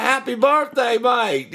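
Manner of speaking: high, hammed-up drunk Fijian accent; badly faked Fijian accent. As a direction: attempt a Fijian accent, half laughing. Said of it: "I can't even do that accent".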